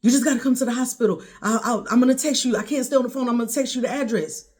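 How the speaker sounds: urgent. Retold or imitated. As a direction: rush it out like an emergency phone call. Nephew's urgent phone call, retold.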